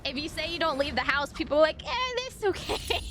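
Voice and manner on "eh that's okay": higher, softer mock shrug; breezy acceptance. People reacting to someone staying home, breezy acceptance. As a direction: imitate people waving it off lightly.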